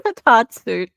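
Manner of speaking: high, laughing take on the word; giggling at the phrase; laughing mockery. Real, not acted. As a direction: laugh through the silly word. Mocking the misspelling.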